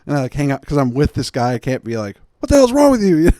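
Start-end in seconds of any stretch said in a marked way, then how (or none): 2.4-3.3 high, loud exasperated yell; yelling at wife on the phone; imagined outburst. Pretend. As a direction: blow up at her.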